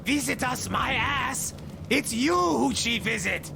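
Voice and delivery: high-pitched, indignant outburst; indignant retort. Acted. Crewman contradicting his admiral about Olga's visits, indignant. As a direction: throw it back at him, high and indignant.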